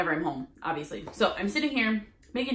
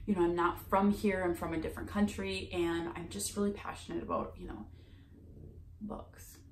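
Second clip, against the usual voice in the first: near-whisper, much softer pleading; quiet voice; 7 dB quieter than usual. Retold or imitated. Saleswoman softly explaining she is passionate about books, hushed. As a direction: hush it right down, almost whispering. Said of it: "her voice got quiet".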